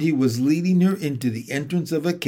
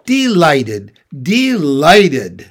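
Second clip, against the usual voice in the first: louder, eagerly delighted; 7 dB louder, much slower than usual. Acted. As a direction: gush the word out with joy. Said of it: "it went on".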